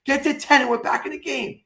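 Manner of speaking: excited urging. Retold or imitated. Urging neighbor during comeback.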